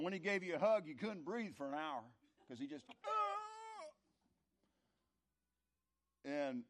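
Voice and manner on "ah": high strangled gasp from a crushing hug; squeezed gasp. Retold or imitated. Son recalls his big dad's hug, a high squeezed gasp. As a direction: let a hug squeeze the air out of you.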